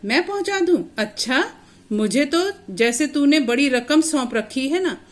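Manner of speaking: scolding sarcasm. Acted. Uncle Sudama taunts the injured boy, sarcastic and scolding. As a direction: sneer it back at him like a grumpy uncle. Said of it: "Sudama उसे डांट रहा है".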